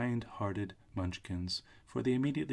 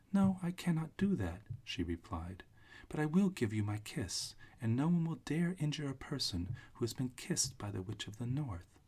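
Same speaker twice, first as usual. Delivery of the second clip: put-on little old witch; 5 semitones higher than usual. Witch figure, high voice.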